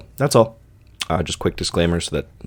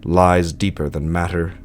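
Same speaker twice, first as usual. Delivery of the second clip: measured, solemn literary reading with deliberate pauses; story narration. A narrator's reading. Narrator reading Lovecraft's tale of sleep to listeners, solemn story narration. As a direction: read it as a grave gothic tale, phrase by phrase.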